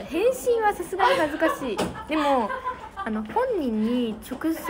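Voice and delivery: embarrassed laugh. Real, not acted. Telling viewers about replying, laughing shyly. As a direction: giggle out the embarrassment.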